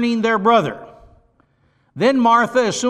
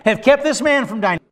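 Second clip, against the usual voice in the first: higher-pitched challenge, falling at the end; accusing; 4 semitones higher than usual. Acted. The Jews accuse Jesus over a dead man, accusing. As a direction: throw it out as a pointed reproach. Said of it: "now the Jews are gonna accuse him".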